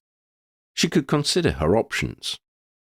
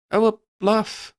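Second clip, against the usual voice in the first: dawning realization; 13 semitones higher than usual. A narrator's reading. Lydia finally gets the word, realising. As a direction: let the penny drop on oh. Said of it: "realization dawning on her".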